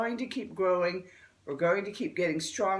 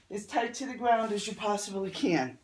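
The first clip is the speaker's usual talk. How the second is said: slightly dry, rough throat; talking through a dry throat. Real, not acted. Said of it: "my throat's really dry this morning".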